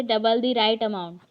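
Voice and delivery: spaced out slowly, word by word; slow dictation. Shown as a demonstration. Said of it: "फिर next वैसे ही है". (धीरे धीरे शब्द बोलकर)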